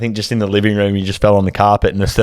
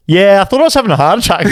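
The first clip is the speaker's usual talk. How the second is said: mock calm quote; 11 semitones higher, 3 dB louder than usual. Friend retelling calm hospital call.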